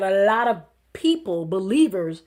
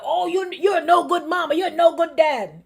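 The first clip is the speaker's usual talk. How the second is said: mock smooth talk; 6 semitones higher, 3 dB louder than usual. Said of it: "smooth talk and be like".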